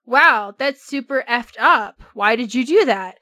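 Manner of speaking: unimpressed, questioning reaction; mock disapproval. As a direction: react as an appalled crowd, mildly. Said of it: "everyone was like".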